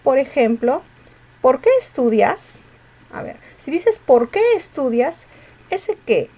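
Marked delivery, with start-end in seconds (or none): 1.4-2.7 "qué" alargado y subido; stress on QUÉ. Shown as a demonstration. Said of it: "se pronuncia con mayor fuerza". 4.0-5.3 "qué" alargado y subido; stress on QUÉ. Shown as a demonstration. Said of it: "con mayor fuerza de voz".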